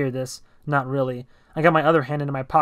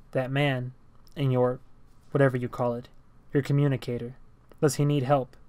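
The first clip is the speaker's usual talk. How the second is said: flat robotic speech. Acted. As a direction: speak like a robot, no inflection. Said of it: "He spoke robotically".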